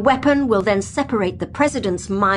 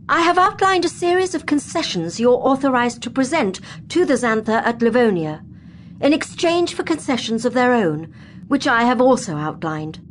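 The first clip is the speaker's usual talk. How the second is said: dignified president's speech. Acted. President urging diplomats toward peace, dignified and firm. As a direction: address the assembly with calm authority.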